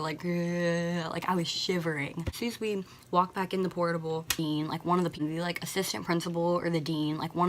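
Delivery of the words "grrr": shivery "grrr" noise; imitated teeth chattering. Shivering outside in a sweatshirt, imitated chattering noise. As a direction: mimic teeth chattering from cold. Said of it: "Like, my teeth were".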